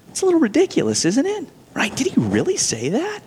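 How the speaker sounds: scoffing, sarcastic voice of the serpent; sneering mockery. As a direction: sneer it, mock the rule as silly. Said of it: "It's mocking".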